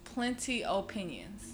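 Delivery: slow, drawn-out West Indian Plenty Opinions; slow Caribbean lilt on Plenty Opinions; West Indian accent. Shown as a demonstration. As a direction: say Plenty Opinions like a Jamaican, slowly. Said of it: "The West Indian way".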